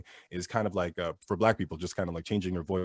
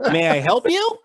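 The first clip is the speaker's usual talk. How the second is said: high, louder, exaggeratedly harmless offer; least threatening voice; 8 semitones higher, 8 dB louder than usual. Store worker code switching for a customer, least threatening voice. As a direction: sound as harmless as possible, pitched up. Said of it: "in my least threatening voice".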